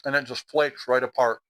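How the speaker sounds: talking through a bite of fish; words round a mouthful of food; mouth full. Real, not acted. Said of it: "talking with my mouth full".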